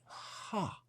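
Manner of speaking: demon's laugh. Retold or imitated. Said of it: "the demon was like".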